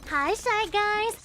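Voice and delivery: high, slow, sing-song hello; excited greeting. Real, not acted. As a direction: greet them like a delighted friend. Greeting a chatter named Echo.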